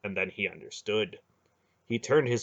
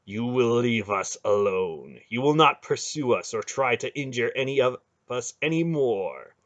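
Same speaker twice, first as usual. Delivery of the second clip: menacing; 3 semitones higher, 4 dB louder than usual. Acted. Garion threatens the hierarch.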